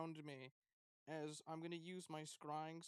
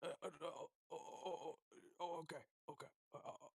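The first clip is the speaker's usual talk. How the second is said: flustered. Acted. Flustered hero after a kiss.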